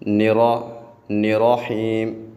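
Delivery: نراحیم with a split نرا, slow; wrong pronunciation. Shown as a demonstration. Teacher imitating a child's mistake. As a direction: break نراحیم apart at نرا. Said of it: "نہیں پڑھنا".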